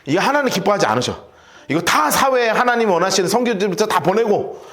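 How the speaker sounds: acted scolding of a son, mild heat; mock-angry dressing-down; angry father. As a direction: tell off your grown son in exasperation. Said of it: "갑자기 열받네".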